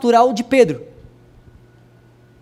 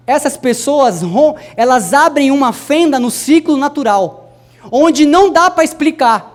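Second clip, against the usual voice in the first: emphatic preaching, building louder and higher; forceful preaching; 4 semitones higher, 5 dB louder than usual. Acted. Preacher urging the church about bold believers, forceful preaching. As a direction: drive the point home, swelling to the end.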